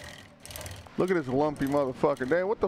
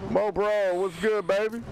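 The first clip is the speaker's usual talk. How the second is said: excited calling out; 6 semitones higher than usual. Real, not acted. Calling out to pet.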